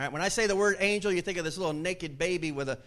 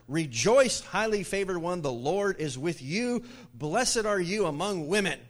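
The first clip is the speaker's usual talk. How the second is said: 1 loud angel greeting; 2 semitones higher, 4 dB louder than usual. Acted.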